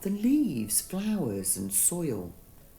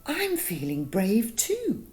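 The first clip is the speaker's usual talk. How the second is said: proud; 5 semitones higher, 3 dB louder than usual. Acted. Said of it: "he said proudly".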